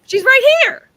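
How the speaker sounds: loud, high, thrilled announcement; big excited game-show reveal. Real, not acted. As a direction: shout the reveal with glee. Host surprise-reveals author excitedly.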